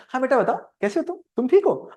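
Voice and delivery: acted fond check-in; affectionate parent. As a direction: switch to sweet concern for your son. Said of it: "तब तक मेरा बड़ा बेटा आ गया".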